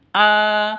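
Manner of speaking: A held long on an even note; two-beat long a. Shown as a demonstration. Teacher showing tanwin turned long, held A. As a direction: stretch A for two beats. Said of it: "Panjang dua ketukan".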